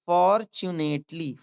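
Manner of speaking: "fortunately" slowly, for, tu, nate, ly; syllable by syllable. Shown as a demonstration. Teacher demonstrating to learners, syllable by syllable. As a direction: stretch each part of "fortunately". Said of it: "सही रूप आया है".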